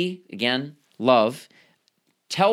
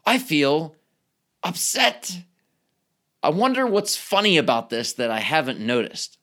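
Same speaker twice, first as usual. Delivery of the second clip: calm reflection. Retold or imitated. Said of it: "What if you instead say".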